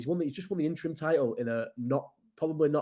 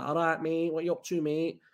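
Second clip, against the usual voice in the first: put-on light Manchester accent, casual greeting; a hint of Manc, tossed off like a lad on the street; 3 semitones higher than usual. Imitating how Little Hutton folk greet in Manc accent. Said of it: "quite Manc accents".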